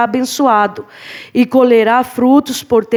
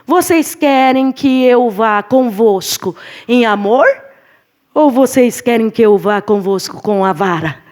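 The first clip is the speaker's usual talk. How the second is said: apostle Paul asking. Retold or imitated. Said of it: "ele vai perguntar".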